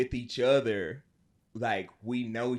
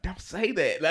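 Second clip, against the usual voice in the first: laughing protest; 8 semitones higher, 4 dB louder than usual. Retold or imitated. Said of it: "I was like".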